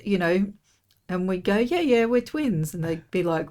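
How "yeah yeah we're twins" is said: lightly acted, higher-pitched quote; playful retold boast. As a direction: replay the twin claim in a high voice. Acts out their playful twin claim.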